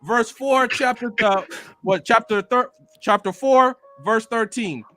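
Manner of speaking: solemn preacher addressing the congregation; hammed-up funeral sermon voice; eulogy for a fan let down by Tokyo Ghoul; mock preacher eulogy. Reading mock scripture.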